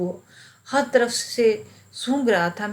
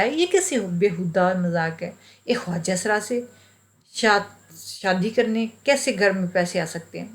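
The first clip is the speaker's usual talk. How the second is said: angry disbelief. Retold or imitated. Husband rejecting wife's marriage scheme, mildly angry disbelief. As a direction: scoff at the absurd idea, irritated. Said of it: "और गुस्सा भी आया".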